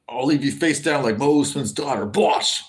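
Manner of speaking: a light attempt at Izzy Adesanya's Nigerian-New Zealand accent. Streamer imitates a fighter's trash talk, lightly done Nigerian-New Zealand accent. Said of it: "like an Izzy accent".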